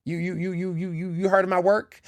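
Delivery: stammered mock surprise, breaking into a laugh; mock astonishment. Teasing a bully with his comeback, mock astonishment. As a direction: stutter the opening word, then ask in playful disbelief.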